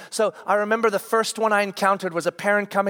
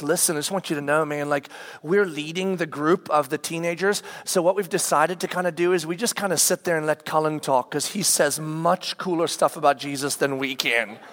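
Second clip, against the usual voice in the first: lower, easygoing dude voice; mild impression of a relaxed counselor; laid-back guy; 4 semitones lower than usual. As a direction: talk like a chill youth leader.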